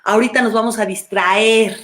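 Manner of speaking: gently quieting your own inner conflict; soothing reassurance. Retold or imitated. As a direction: lull it like a worried child.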